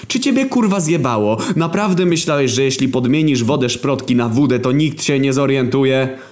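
high, furious outburst; angry scolding. Acted. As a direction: tear into your dim friend. Scolding Głód over vodka. (wysoki, wściekły wybuch)

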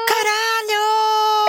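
drawn-out high cry of disbelief; shocked cry. Real, not acted. Reacting to her friend's Barney show, a long stunned yell. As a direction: stretch it out, stunned.

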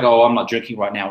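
nervous, hesitant refusal; timid and scared. Shown as a demonstration. Refusing a drink, worried and timid. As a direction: say it like you're afraid to explain. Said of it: "timid and scared and worried and concerned".

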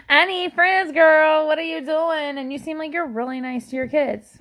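eager friend-seeking. Retold or imitated. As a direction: beg her to be your friend. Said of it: "I'm like".

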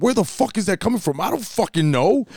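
high-pitched baffled retelling; mock-baffled, pitched well up; dumbfounded. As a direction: act out utter bewilderment. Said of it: "we're dumbfounded".

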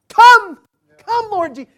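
high, loud cry of Come; ringing plea to Jesus; fervent prayer. Acted. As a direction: call out the prayer with longing. Quoting John's prayer.

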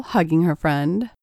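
ordinary delivery, nothing marked

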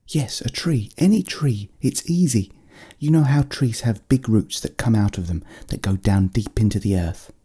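gentle creature explaining; little bear guiding. Acted.

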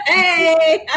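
loud burst of laughter, cheering hey; laughing. Real, not acted. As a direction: crack up and shout hey. Host cracks up at sales joke.

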